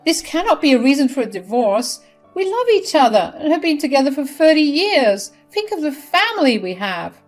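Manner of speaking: high, loud tearful plea to her husband; crying plea. Acted. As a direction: beg through tears. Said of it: "She cried and said".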